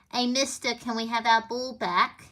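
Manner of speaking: lightly put-on Liverpool accent; a hint of Liverpool in a quoted film line. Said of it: "do my best Liverpool accent".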